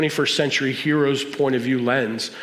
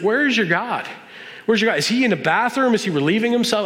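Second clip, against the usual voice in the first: taunting; 6 semitones higher than usual. Retold or imitated. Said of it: "at one point he's taunting them".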